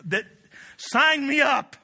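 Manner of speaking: high, loud whoops, slowing on the end; David shouting, sure the throne is his; fired-up shout. Retold or imitated. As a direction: yell it like you just won. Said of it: "And he's like".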